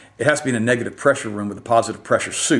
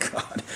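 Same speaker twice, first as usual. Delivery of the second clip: exasperated laugh; 12 dB quieter than usual. Real, not acted. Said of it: "I'm just very frustrated right now".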